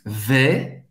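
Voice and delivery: "vais" with an open E, almost smiling; open, smiling vowel. Shown as a demonstration. Teacher modelling vais for learners, open smiling vowel. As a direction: open up "vais" into a near smile, silent S. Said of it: "mais aberto, quase um sorriso".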